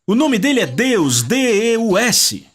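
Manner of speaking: ordinary delivery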